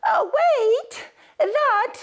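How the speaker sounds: very high, loud flamingo squawk; a shrill bird crying that the crown is hers; squeaky flamingo. Acted. Flamingo to the animals, claiming the crown, very high squawk.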